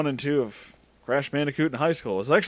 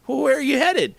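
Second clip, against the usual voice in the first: high-pitched friendly question; smiling; 12 semitones higher, 4 dB louder than usual. A narrator's reading. Boy asking where she's headed, smiling voice. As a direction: ask with a smile in a high voice. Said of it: "also smiling".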